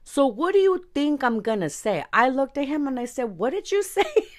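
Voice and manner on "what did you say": retold outraged question, pitched high; acting out a disbelieving comeback; indignant challenge. Singer confronts the host who insulted her parents, indignant.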